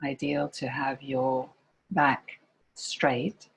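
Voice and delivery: calm meditation guide with long pauses between phrases; guided meditation. Real, not acted. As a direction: gently lead listeners into body and breath, pausing often.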